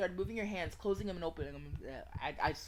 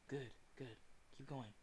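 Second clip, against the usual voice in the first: soft, calm encouragement; quiet, reassuring murmur; soothing voice; 3 semitones lower, 8 dB quieter than usual. Acted. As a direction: gently coach them onward. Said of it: "A soothing voice echoes far in the distance".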